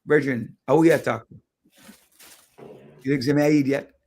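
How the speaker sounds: put-on indignant retort in a Jamaican accent. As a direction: let the Jamaican accent come out. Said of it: "my Jamaican accent came out".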